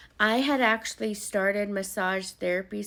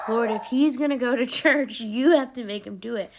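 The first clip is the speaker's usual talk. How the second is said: pleading prayer; 4 semitones higher, 7 dB louder than usual. Retold or imitated. Retelling her prayer for him.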